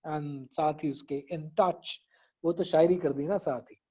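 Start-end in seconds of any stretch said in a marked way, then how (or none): 1.3-2.0 "in touch" slow and softer; rhyme picked out. Shown as a demonstration. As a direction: stretch "in touch" to match the rhyme. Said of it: "काफी और रदीफ था ना".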